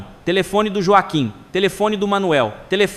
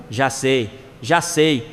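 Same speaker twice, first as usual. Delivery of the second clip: low-pitched, unruffled reply; mildly placid acknowledgement; calm; 7 semitones lower, much slower than usual. Acted. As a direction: answer calmly, as if nothing needs doing.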